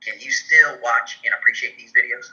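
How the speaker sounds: hammed-up fake Southern accent; bad fake Southern accent. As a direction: play a questioner with a phony Southern accent. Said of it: "a bad Southern fake accent".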